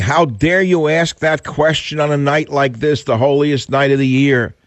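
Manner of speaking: caller's indignant outburst, pitched high and slowed; outraged caller. Retold or imitated. Host imitates the angry caller's indignant outburst. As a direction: play the offended caller scolding the host. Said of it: "he got so mad at me, saying".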